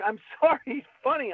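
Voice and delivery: laughing while saying sorry; laughing apology. Retold or imitated. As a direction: giggle through the apology. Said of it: "And I was like".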